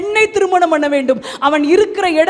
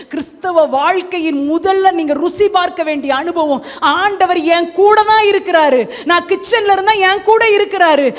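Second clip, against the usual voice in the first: ringing, insistent declarations in waves; impassioned preaching; 2 semitones higher, 4 dB louder than usual. Real, not acted. Preacher declaring that God is with him, impassioned. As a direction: drive each assurance home with full voice.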